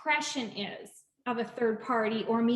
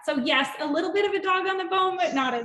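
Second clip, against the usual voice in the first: laughing; 6 semitones higher, 4 dB louder, faster than usual. Real, not acted. Self-deprecating laugh at the end.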